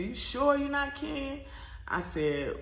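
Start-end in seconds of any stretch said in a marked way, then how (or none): 0.0-1.4 much higher teasing doubt; airport lady doubting. Retold or imitated. Airport worker questioning the traveler, higher teasing disbelief. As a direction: press her, not quite believing. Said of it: "She said".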